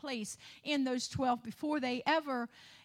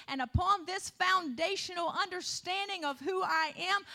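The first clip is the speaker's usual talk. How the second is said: raised, higher-pitched preacher's delivery; fervent preaching; 4 semitones higher, 5 dB louder than usual. Real, not acted. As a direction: preach it with rising fervor. Preaching builds to a peak.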